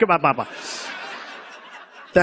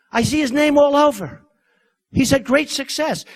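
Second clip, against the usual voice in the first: retold angry defense; 5 semitones higher than usual. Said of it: "he got angry".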